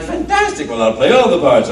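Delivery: acted-out thrilled reply, leaping up on the first word; excited. Actor hears the director loves his voice, excited. Imagining landing a fun role.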